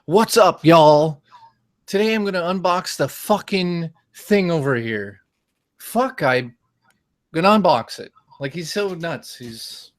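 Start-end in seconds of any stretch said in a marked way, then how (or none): 0.1-8.1 high-pitched mock unboxing host; over-the-top YouTuber impression; eight-bit Eric. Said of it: "he's like this in his video".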